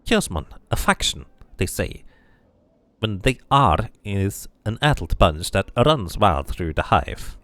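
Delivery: bitter woman explaining the gang; bitter scarred woman. Acted. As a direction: spit out the name of her attackers. Woman explains the Chaos men.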